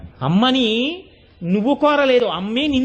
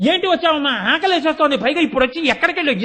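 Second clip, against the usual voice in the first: higher, a hint of a cross little boy; child talking back; 4 semitones higher, faster than usual. Preacher voicing a hungry child rebelling against mother, mildly cross. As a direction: lightly mimic a child snapping back at mom. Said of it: "తిరగబడిపోతాడు".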